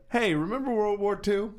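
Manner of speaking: bright, high mock ad line; mock TV announcer. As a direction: pitch it like a cheesy promo. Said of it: "They should just change the name to".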